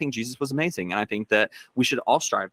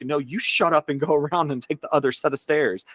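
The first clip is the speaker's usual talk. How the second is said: put-on raised, scolding teenager voice; retold angry yell; 5 semitones higher than usual. Teenager scolds a pushy little girl, mock yelling. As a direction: tell her off, pitch pushed up. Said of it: "I yelled at her".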